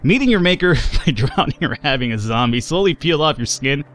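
lightly put-on, drifting character accent. Gamer resumes sailor's tale after doubting own wandering accent. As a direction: have another go at a wobbly accent, half amused.

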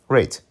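"Wraith" slipped out for another word; "Wraith", a slip of the tongue; misread word. Real, not acted. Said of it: "why did I say Wraith?".

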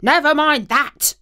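lightly voiced dog, a touch of bark; woofing dog. A narrator's reading. Dog reassuring the cat, a light bark. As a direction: toss it off with a small woof. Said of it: "woofed the dog".

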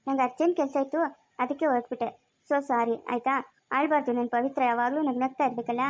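low, gentle reassurance; calm, coaxing comfort; tender apology. Acted. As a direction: soothe a crying sweetheart. Apologising to his crying girlfriend.

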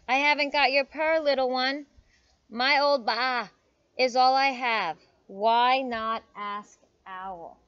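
loud bleating sheep character. A narrator's reading. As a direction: talk like an old sheep, loud and drawn out at the end. Reader voices the sheep.

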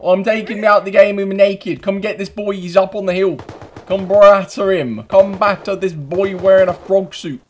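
high, loud shouting to the gang; rally the boys with urgent yells; frantic calling out. Pretend. Calling players onto an opponent.

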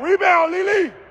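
high urgent shout of her name; high coaching yell from the stands; urgent call. Real, not acted. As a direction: push her to grab the ball. Urging player to rebound.

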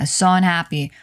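"so unhappy" run together as "so-nappy"; linked pronunciation. Shown as a demonstration. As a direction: link "so unhappy" into one unit, swallowing the "un". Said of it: "이렇게 들립니다".

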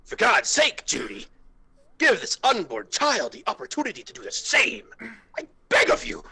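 high, loud begging cry; hammed-up desperate pleading shout; desperate shouted plea. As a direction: beg at the top of your voice, pitch up.

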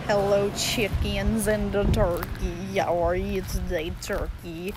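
coo at animals. Real, not acted. Talking tenderly to her chickens and turkey. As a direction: croon to the birds.

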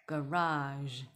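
"garage" ending in a soft zh sound; careful demo of "garage", closing on zh. Shown as a demonstration. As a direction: model "garage" with a drawn-out middle and final zh. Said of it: "后面那个日的声音".

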